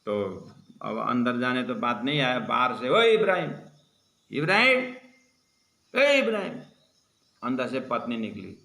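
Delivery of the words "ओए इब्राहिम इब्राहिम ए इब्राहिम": calling out. Retold or imitated. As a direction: shout the name toward the house. Calling out for Ibrahim at door.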